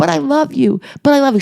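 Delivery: mock hysterical sobbing. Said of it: "She's hysterical crying".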